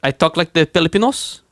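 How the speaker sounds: loosely imitated Filipino accent. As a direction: try a rough Filipino accent. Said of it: "This is how they talk".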